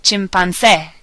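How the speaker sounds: Chimpancé with stress on final CÉ; stress on accented vowel. Shown as a demonstration. Teacher giving an example, final-syllable stress on Chimpancé. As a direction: hit the last syllable of Chimpancé. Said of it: "the syllable that you will stress".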